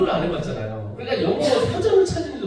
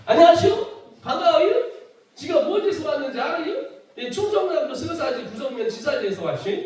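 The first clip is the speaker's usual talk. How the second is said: hick greeting; 7 semitones higher than usual. Retold or imitated. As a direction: greet colleagues like a proud country boy. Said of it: "이래야 되는데 저는 들어서". (높고 크게 웃으며 하는 시골 촌놈 인사)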